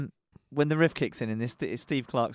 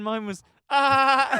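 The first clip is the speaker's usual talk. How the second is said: machine gun noise; 12 semitones higher, 6 dB louder, much slower than usual. Shown as a demonstration. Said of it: "that's like mine".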